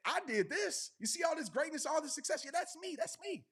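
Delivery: imitating someone boasting about their success; mock boastful. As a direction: show off like you're taking all the credit. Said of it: "We like".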